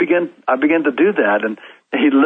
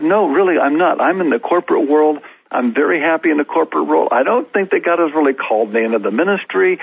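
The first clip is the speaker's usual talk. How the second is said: retold protest in a higher pitch; arguing back; 5 semitones higher than usual. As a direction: insist you're the wrong person, pitch raised. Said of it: "You're already arguing".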